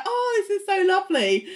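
high, quick mock delight; mock John. Recapper mocking John's reaction to the surprise, high gush. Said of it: "he was like".

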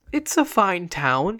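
slow, gentle comfort; soothing. Acted. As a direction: soothe a dying friend. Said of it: "he said soothingly".

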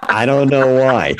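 laughing, mock puzzled; sarcastic laugh. Real, not acted. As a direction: chuckle through sarcasm. Sarcastic laugh about companies.

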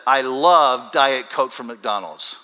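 slow, loud stress on "love", imitating a fan; mock devotion, "love" drawn out and punched; gushing emphasis on love. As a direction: lean hard and long on "love". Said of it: "this is how she said it".

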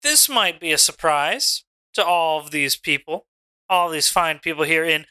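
Mitchy Richie in the ring. Acted. Mitchy Richie answers the Dom on the mic, promo voice. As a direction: address the crowd as a cocky wrestler.

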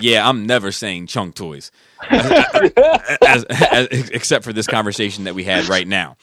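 words broken by real laughter; laughing. Real, not acted. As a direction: laugh through the line. Laughing through his reply.

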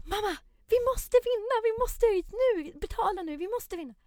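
put-on very high, loud child's plea; begging kids. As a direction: whine up at mum like a small child.

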